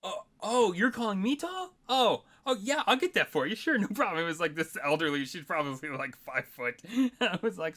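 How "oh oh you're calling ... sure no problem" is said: flustered apology. Retold or imitated. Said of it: "and I'm like".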